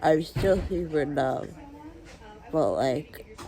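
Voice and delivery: slow, spacey and drugged; groggy from anesthesia. Real, not acted. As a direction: drift through the words. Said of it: "strongest thing I've ever taken".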